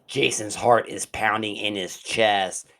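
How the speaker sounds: measured, dramatic horror-story narrator; story narration. A narrator's reading. Narrator setting up a slasher victim's fate, dramatic storytelling. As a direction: read it like a suspenseful thriller opening.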